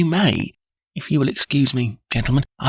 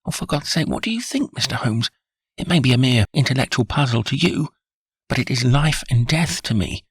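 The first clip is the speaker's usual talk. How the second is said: raised, higher voice of a desperate father; desperate plea; 8 semitones higher than usual. A narrator's reading. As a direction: beg him not to play games, voice climbing. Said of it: "was trembling all over".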